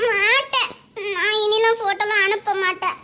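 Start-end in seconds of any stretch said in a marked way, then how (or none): 0.1-0.7 tearful refusal. Acted. Girl tearfully refuses her boyfriend's demand, crying. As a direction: refuse him through tears.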